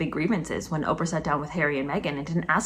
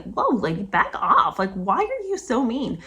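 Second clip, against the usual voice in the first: high exasperated protest; 5 semitones higher, slower than usual. Retold or imitated. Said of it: "you're just like".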